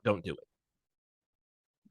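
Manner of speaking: soft and very slow warning; quiet warning. Retold or imitated. Monk advising a doubter, slow soft warning. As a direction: drop to a slow hush. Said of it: "He's not gonna be like".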